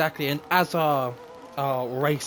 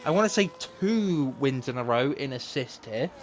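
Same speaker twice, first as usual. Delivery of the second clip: live play-by-play; 3 semitones higher than usual. Acted. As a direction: race commentator calling laps. Live commentary of race laps.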